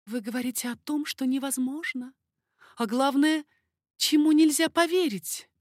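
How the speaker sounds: high, lively lady's voice, teasing; coquettish baroness. Acted. Baroness teasing King Henri, high coquettish voice. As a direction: play the flirtatious court lady.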